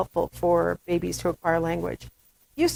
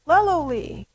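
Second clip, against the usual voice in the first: intonation demo; 3 semitones higher, slower than usual. Shown as a demonstration. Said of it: "so intonation".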